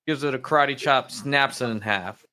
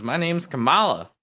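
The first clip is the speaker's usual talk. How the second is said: parrot voice; 6 semitones higher than usual. Acted. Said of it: "Bird says".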